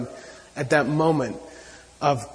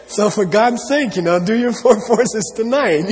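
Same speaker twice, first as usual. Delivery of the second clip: pleading exhortation; 6 semitones higher, 4 dB louder than usual. Retold or imitated. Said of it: "He says".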